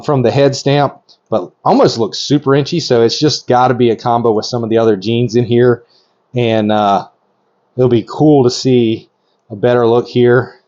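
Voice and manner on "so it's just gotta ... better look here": breathless from excited talking; short of breath, rushing. Real, not acted. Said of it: "Sorry, I'm almost out of breath".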